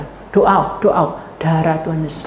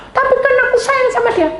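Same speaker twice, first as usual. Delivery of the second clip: mock protest; 4 dB louder, faster than usual. Acting husband protesting.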